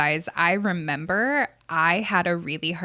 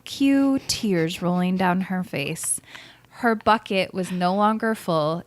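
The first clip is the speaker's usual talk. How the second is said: fairy tale storyteller voice. Acted. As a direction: read it like a bedtime fairy tale. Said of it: "it's fairy tale time".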